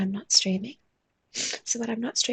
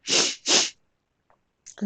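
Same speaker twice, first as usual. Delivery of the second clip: words stretched through a real yawn, slow; slow words pulled out by a yawn; 6 dB louder than usual. Real, not acted. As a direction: yawn mid-phrase. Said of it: "I get all yawny".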